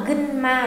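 "gân ma" with the n sounded distinctly; very clear N. Shown as a demonstration. Teacher checks the expected reading with learners, "gân ma" with clear N. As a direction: pronounce a clear N before ma in "gân ma". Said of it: "đọc rất rõ là".

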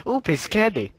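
high, playful put-on voice; high silly voice. Repeated candy-spotting catchphrase voice.

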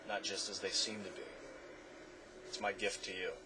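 a soft, hushed parting gift; softly. Acted. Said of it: "he said softly".

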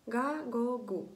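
"Га", "го", "гу" each with a hard g; hard g syllables. Shown as a demonstration. Teacher demonstrating the letter before a, o, u, hard g. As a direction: sound out "Га, го, гу" separately, hard g. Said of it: "то вона читається як звук «г»".

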